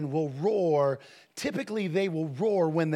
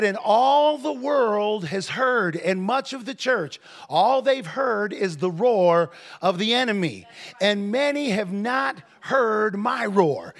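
loud, drawn-out preaching shout; full-voiced prophetic declaration; forceful proclamation; 3 semitones higher, 5 dB louder, slower than usual. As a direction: proclaim it as God's own word.

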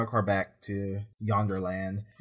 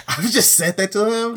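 laughing; 8 semitones higher, 5 dB louder than usual. Real, not acted. Laughs while telling.

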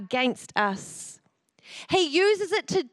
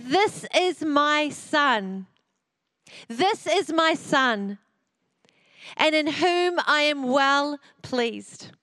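slow, weighty proclamation; voice of God; slower than usual. Acted. God speaking over his son, slow and solemn. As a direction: pronounce it slowly like a blessing from heaven. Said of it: "and he says".

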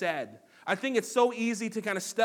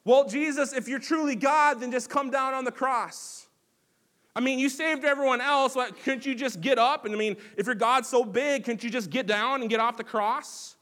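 much higher, louder jeering yell; shouted mockery; 6 semitones higher, 5 dB louder than usual. Preacher playing a mocking bystander at the cross, loud jeering. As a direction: taunt him hard from the crowd. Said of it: "shouting and mocking Jesus on the cross".

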